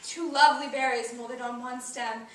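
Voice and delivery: wistful remembrance. Acted. Recalling lost friendship in monologue.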